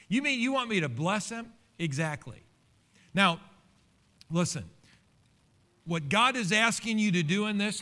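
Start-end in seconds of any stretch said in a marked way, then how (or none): 0.1-1.5 high-pitched, disbelieving question; mock incredulous. Churchgoer questioning the command to bless enemies, mock incredulous. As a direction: balk at it like a reluctant listener. Voices a listener balking at command.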